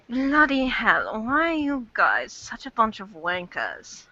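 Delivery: attempted British accent, slow drawn-out opening. Shown as a demonstration. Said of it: "can't do a really good British accent".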